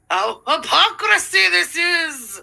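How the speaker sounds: drawn-out, high-pitched mock dismay; mock outrage. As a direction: wail it in theatrical outrage. Mock outrage at the played clip.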